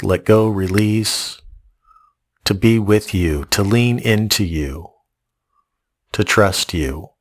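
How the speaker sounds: reverent spoken prayer. Acted. Closing prayer.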